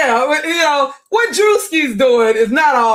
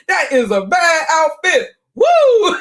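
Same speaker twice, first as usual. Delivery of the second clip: Superman movie one-liner; 7 semitones higher, slower than usual. Retold or imitated. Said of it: "the black actor had in the Superman movie".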